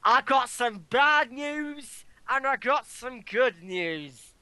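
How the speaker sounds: slow, lightly put-on Southern drawl on the catchphrase; a light Southern accent, drawn out. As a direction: imitate a wrestler's Southern promo, slow. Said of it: "Why do you sound Southern?".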